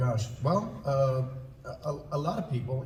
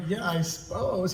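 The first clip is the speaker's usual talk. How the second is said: slow, pitched-up bear voice; Winnie the Pooh; 4 semitones higher, slower than usual. Retold or imitated. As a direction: agree slowly as a cartoon bear. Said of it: "give me some poo".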